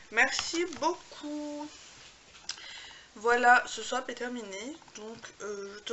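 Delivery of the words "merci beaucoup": warm thanks. Real, not acted. Thanking the friend for gift.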